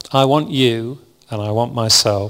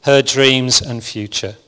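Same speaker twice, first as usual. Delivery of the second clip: impassioned rebuke; 4 dB louder than usual. Retold or imitated. Jesus imagined rebuking the uncaring, loud slow outrage fading. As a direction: preach it as a furious call-out, then settle down. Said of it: "maybe it went something like this".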